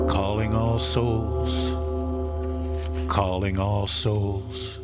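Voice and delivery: slow, drawn-out tolling chant; long, solemn, level-toned call; incantatory summons. Acted. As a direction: toll the words out like a bell. Echoing the tolling bell.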